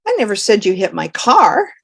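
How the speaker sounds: I punched loud at the start; the stress falls on I. Shown as a demonstration. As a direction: open hard on I. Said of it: "For example".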